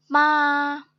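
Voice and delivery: second-tone मा, long and rising. Shown as a demonstration. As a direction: stretch मा with an upward glide. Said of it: "low to high जाएगी".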